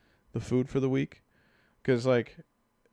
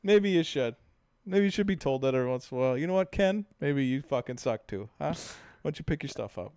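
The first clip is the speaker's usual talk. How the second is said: higher-pitched mock scolding, feistily argumentative; spicy comeback; 3 semitones higher, 3 dB louder than usual. Husband answering a judgmental couple, playfully spicy. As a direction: play up a testy retort with punched names. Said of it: "I'm a little spicy today".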